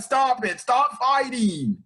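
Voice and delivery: high, drawn-out mock plea; mock distressed plea. Nami begging her friends to stop, mock distressed plea. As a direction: imitate her pleading, stretching the last words. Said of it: "she is bawling her eyes out".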